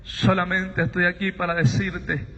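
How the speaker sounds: low, measured pronouncement; solemn divine voice. Retold or imitated. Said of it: "Aquella voz me dice".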